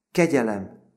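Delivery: high, loud cry for mercy; acted pleading outburst; sobbed plea. A narrator's reading.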